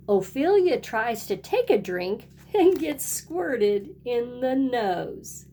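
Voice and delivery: lively picture-book read-aloud with a sing-song refrain; storybook voice for little kids; reading to children. A narrator's reading. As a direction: read it like storytime for a kindergarten class. Teacher reads picture book to class.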